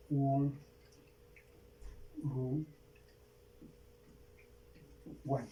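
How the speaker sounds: Uruguay split into U, Ru, Guay with a pause after each; syllable by syllable. Shown as a demonstration. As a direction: tap out U, Ru, Guay one by one. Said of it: "Yo la separo por sílabas".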